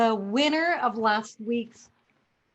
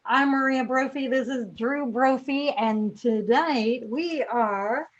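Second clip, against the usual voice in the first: squeezed, short of breath; in a tight corset; 4 dB louder than usual. Real, not acted. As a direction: talk with little air in the lungs. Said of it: "I can't breathe in this thing".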